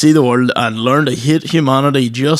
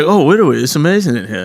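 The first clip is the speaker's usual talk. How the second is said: put-on babyish w-for-l catchphrase voice; comic put-on accent; faster than usual. Man from the reels in a shop, comic babyish accent. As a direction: imitate an over-the-top oddball. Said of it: "he goes into random shops and he's like".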